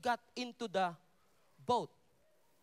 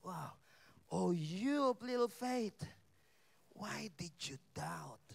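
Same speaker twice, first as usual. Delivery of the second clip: Jesus tenderly chiding Peter, barely above a murmur; gentle Jesus; slower than usual. Acted. Jesus voiced gently rebuking Peter.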